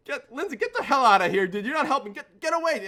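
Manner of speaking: high, loud retold fury; angry shouting, stumbling over the first words; mad as can be. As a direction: yell to drive a friend away, acted out. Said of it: "I'm mad at Lindsay, as, as mad as I can".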